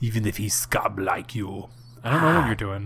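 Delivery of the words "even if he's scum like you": put-on low, vampire-style movie accent. Repeating the other speaker's movie line back in a vampire-type voice. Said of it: "a vampire type".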